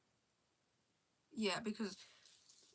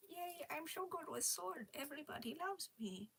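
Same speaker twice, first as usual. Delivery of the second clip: dim-witted brother; 6 semitones higher, 8 dB quieter than usual. Acted. Voicing the dumb character.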